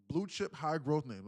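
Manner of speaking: talking around something in the mouth; words round a mouthful; mouth full. Real, not acted. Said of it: "I thought this one was in my mouth".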